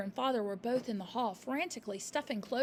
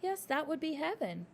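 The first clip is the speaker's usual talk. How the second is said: soft; 6 semitones higher than usual. A narrator's reading. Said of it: "Miss Honey said softly".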